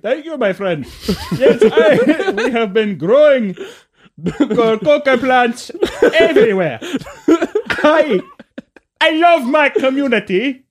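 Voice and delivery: milk a cartoon cartel boss speech; bad Colombian accent. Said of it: "Cliff, you're going off script".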